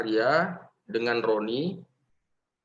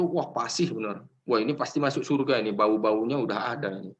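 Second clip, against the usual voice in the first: mock awe; 3 semitones lower, faster than usual. Imagined admiring classmates.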